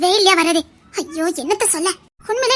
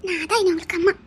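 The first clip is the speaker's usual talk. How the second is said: tearful comfort; 7 dB quieter than usual. Acted. Comforting him about his mother.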